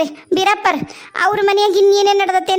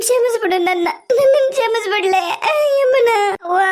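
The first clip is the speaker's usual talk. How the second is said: higher, sobbing through the words; crying plea; 4 semitones higher than usual. Acted. Mother to Yamuna as she leaves, crying. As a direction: beg forgiveness between sobs.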